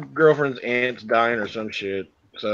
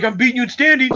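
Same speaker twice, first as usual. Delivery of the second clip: hammed-up boast about the standings; mock bragging friend; 10 semitones higher, faster than usual. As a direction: play the smug rival gloating. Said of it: "he's like".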